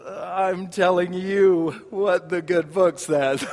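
slow, laughing Tevye behind his hand; covering his mouth, half laughing; sheepish aside. Retold or imitated. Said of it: "he covers his mouth and says".

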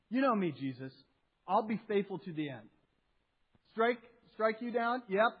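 boastful, brash disciple bragging his loyalty, lightly acted; overconfident Peter. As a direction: puff yourself up like stereotypical Peter. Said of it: "stereotypical Peter, goes".

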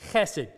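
"chesed" with a throaty, scraped ch; "chesed" starting from deep in the throat; throaty Hebrew sound. Shown as a demonstration. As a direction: say "chesed" like something's in the back of your throat. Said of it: "like there's something in the back of your throat".

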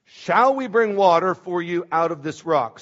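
exasperated scolding, acted out from scripture; disgusted rebuke. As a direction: read Moses' rebuke with a touch of disgust. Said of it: "So Moses is disgusted at this point".

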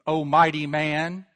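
O mighty man with a slow sneering rise on mighty; slow sarcastic jeer on mighty man; mocking. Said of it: "David's mocking him".

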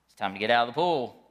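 a touch of a stern father; dad sternly ordering Abby out of the pool; stern parent. Retold or imitated. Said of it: "So then I get stern".

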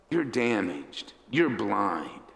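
slow, understated contempt; scorn. Acted. Crowd putting down blind Bartimaeus, understated scorn. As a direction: deliver the put-down slowly, with restrained scorn. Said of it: "they point their finger in scorn".

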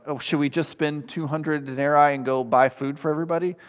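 mildly sarcastic question; a light mock-innocent "Oh". Shown as a demonstration. Preacher voicing the disciples to Jesus, lightly sarcastic. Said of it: "you can definitely read this with sarcasm".

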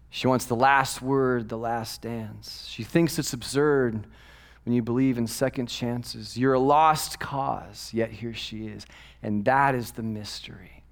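slow lyric reading sinking into a whisper; hushed poem recitation; recited lyrics. Acted. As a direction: let the last lines fall to a hush.

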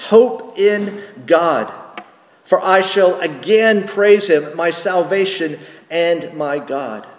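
slow, firm reading of the answer; scripture reading. Acted. Pastor reading the psalmist's answer, slow and assured. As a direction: read the answer slowly and with assurance.

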